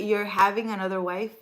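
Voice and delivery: imitating her rising disbelief; mock question. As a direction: echo the surprised question back. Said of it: "You see how she said that?".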